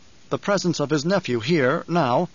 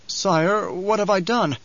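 higher, fearful servant's voice; quavering; 6 semitones higher, slower than usual. A narrator's reading. Servant afraid of the Baron's displeasure, quavering. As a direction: plead with a quaver. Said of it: "Nefud quavered".

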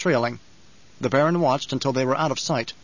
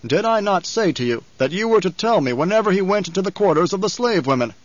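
Baron's accusation, higher pitched; menacing Baron; 5 semitones higher, 4 dB louder than usual. Acted. Baron rebuking his servant, menacing accusation. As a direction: press the servant with mounting wrath.

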